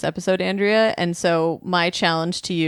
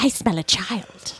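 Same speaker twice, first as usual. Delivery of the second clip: nasal, sing-song put-on voice; 2 semitones higher than usual. Showing how hers would sound, doing the Kathy Najimy voice. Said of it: "I was going to say the Kathy Najimy".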